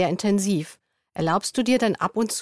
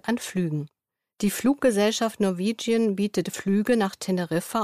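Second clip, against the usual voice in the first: news read. Acted. Closing news item.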